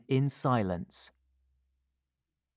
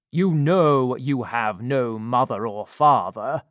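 stern, lightly voiced gentleman; 5 dB louder than usual. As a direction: address the boy with cool authority. Gentleman lectures the boy.

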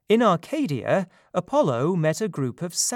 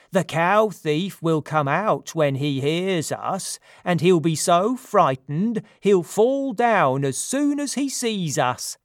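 boastful satyrs; 2 semitones higher, 4 dB louder than usual. Acted. Satyrs boast outside the cave.

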